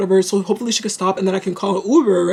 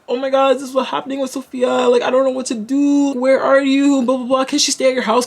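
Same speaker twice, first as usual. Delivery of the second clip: slightly higher, mildly worried phone plea; retold panicked plea; 4 semitones higher than usual. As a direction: lightly act out asking a friend for help. Frantic call to a friend retold.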